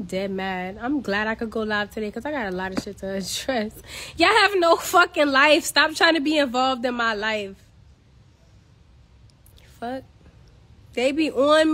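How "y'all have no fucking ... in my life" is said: louder, higher angry snap; angry outburst. Real, not acted. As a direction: blast the nosy viewers. Ranting at nosy viewers.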